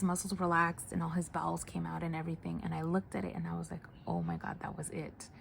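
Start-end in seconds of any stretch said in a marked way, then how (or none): 4.1-5.3 whispered to herself, barely audible; a private, hushed oh my God; hushed realization. Retold or imitated. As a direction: breathe it out in quiet shock. Nurse silently realizing patient died.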